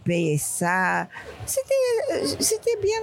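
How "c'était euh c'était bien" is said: laughing. Real, not acted. Laughs recalling her work.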